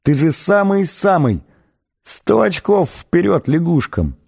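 high-pitched ecstatic praise; mock yelling. A narrator's reading. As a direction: exclaim in wild admiration without truly shouting. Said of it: "заорал он изо всей мочи".

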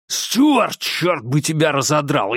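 high, angry yell across the yard; yelling after him. Acted. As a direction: call out furiously into the dark. Шериф кричит вслед. (яростный крик вдогонку)

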